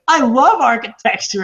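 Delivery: high-pitched imitation of a child; kid's voice. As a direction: pipe up like a little kid. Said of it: "and he's like".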